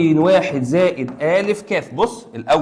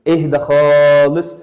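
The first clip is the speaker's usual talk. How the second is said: اهدى خالص louder and slow, خالص rising; emphatic calm-down; 6 dB louder, much slower than usual. Shown as a demonstration. Teacher calming a panicking student, louder and slow. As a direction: press on خالص, slow and loud. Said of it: "repeats it, louder".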